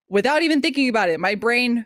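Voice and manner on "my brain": ordinary talk, nothing marked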